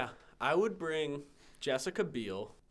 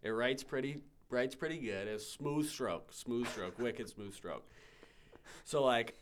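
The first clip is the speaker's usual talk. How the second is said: put-on Boston accent. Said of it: "Sell me this pen in your Boston accent".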